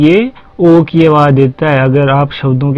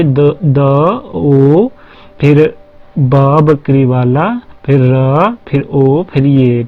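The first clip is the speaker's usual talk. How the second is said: spelling out letters; slower than usual. Shown as a demonstration. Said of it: "देखिए".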